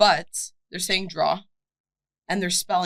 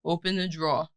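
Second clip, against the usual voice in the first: Brooklyn accent; 2 semitones lower, 4 dB quieter than usual. Shown as a demonstration. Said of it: "But the Brooklyn accent".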